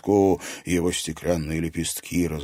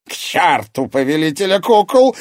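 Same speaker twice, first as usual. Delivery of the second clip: higher and louder bark; the mirror master barks in a loud, higher voice; 10 semitones higher, 8 dB louder than usual. A narrator's reading. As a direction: bark it out in anger. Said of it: "рявкнул мастер зеркал".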